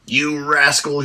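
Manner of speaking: loud, furious roar. Acted. Dwarf roars at the Kinder who stole his pouch. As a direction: bellow it at the thief. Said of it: "he roared".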